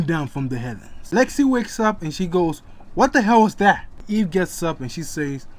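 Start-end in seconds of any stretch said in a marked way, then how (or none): 2.9-3.9 loud, alarmed outburst; startled. Acted. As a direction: jolt awake and shout. Woken by thunder.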